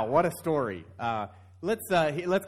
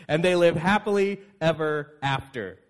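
laughing; 3 dB louder than usual. Real, not acted. Laughing through a joke.

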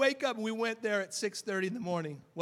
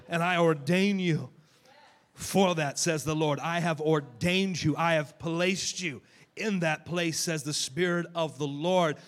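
prophetic declaration; 5 dB louder than usual. Acted.

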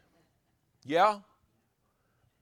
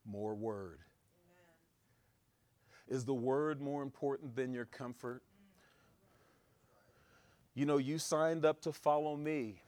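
quiet voice of God; 3 semitones lower, 7 dB quieter than usual. Retold or imitated. God's voice quoted quietly.

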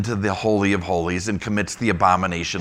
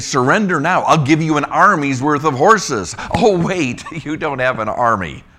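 higher, louder sarcastic jab; sarcastic mockery; 6 semitones higher, 6 dB louder than usual. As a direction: taunt them with mock generosity. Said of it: "He's mocking".

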